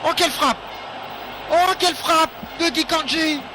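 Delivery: excited sports commentary. Real, not acted. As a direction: shout the goal with delight. Goal call in match commentary.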